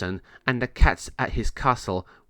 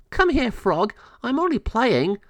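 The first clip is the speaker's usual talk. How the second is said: high, playful kitten voice; playful cat voice; 12 semitones higher than usual. Acted. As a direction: call the frog playfully. Moe chases a frog.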